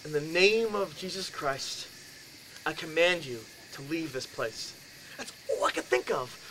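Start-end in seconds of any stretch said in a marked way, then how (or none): 0.0-4.7 commanding. Retold or imitated. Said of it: "put it back in my head".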